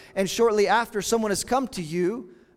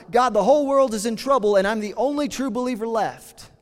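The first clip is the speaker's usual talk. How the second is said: raised, louder cry of despair; retold yell to God; 3 semitones higher, 4 dB louder than usual. Elijah in the cave cries out to God, louder. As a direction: call it up to heaven in complaint. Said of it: "he yells out to God".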